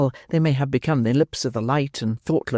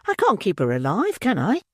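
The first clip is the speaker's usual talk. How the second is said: angry; 6 semitones higher than usual. Acted. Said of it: "angrily demanded the matron".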